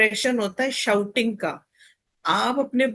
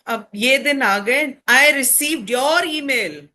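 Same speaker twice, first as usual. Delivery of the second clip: disappointed frustration; 3 semitones higher, 4 dB louder than usual. Shown as a demonstration.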